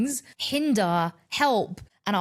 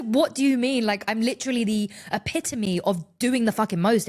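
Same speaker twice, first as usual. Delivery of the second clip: retold anger; 3 semitones higher than usual. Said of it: "I was angry".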